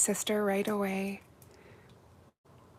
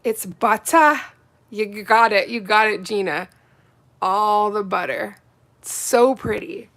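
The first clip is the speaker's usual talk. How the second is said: excited; 9 dB louder than usual. Real, not acted. Excited gushing over yellow.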